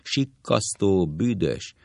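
slow, flat mock yelling; monotone shout. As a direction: bark the insults, lightly done. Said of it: "Kraki monoton hangon ordít".

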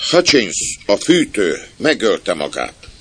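put-on high, loud small boy; child's voice. Stoker's son reporting a death to Jimmy, child's voice. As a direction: blurt out the news like a kid. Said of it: "kérdezte egy gyerekhang".

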